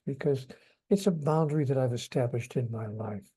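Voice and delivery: soft, quiet and kind, asking nicely; quiet, tender plea to a loved guest; gentle loving request. Shown as a demonstration. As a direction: lovingly ask a guest not to smoke. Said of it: "announcing in a gentle, loving way".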